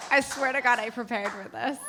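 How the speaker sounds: laughing embarrassed apology. Real, not acted. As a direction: giggle through it, a bit tipsy. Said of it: "I'm very drunk".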